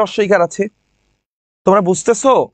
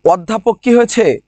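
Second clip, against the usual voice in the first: whisper. Shown as a demonstration. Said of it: "unvoiced quiz question".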